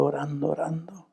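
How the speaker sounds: soft unvoiced whisper, tender memory. Son remembering his mother praying, whispered. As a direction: let the words fade to a whisper.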